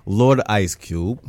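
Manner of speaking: slow, badly faked Scottish accent; mock-grand Scottish accent, badly done; terrible Scottish accent. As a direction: stretch it out in a hint of bad Scottish. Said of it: "That was a terrible, um, Scottish accent".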